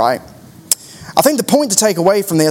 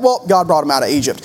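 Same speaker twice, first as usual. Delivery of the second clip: offhand; 4 semitones lower, faster than usual. Retold or imitated. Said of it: "we just kinda say it like that".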